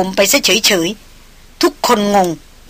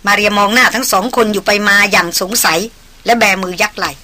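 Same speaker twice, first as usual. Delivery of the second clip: ordinary delivery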